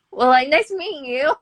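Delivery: high, loud mock farewell breaking into laughter; jokey send-off, cracking up; laughing brush-off. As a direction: laugh through a joking goodbye.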